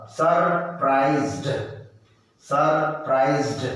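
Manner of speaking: सरप्राइज्ड said slowly and clearly; सरप्राइज्ड, slow and deliberate; slow model word. Shown as a demonstration. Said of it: "बोलो एक बार".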